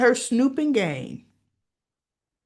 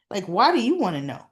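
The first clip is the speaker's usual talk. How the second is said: defensive retort, pitched up and quick; 5 semitones higher, faster than usual. Retold or imitated. Derek questioning Andre about Ashley, all defensive. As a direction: bristle at a prying question. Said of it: "all defensive".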